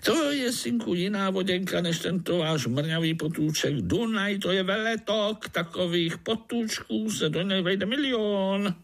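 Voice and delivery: high mosquito voice; high mosquito voice, proud and wistful. Acted. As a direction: boast of the great river, high and longing.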